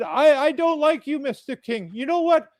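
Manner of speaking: mock a man who can't cuss; imitating the angry foreign priest's clumsy insults. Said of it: "He did not know how to cuss".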